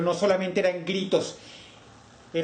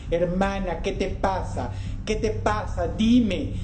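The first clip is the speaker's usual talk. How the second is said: desperate shout; 5 semitones higher, slower than usual. Acted. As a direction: call out to her in the dark, desperate. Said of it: "gritaba él". (grito desesperado, más agudo)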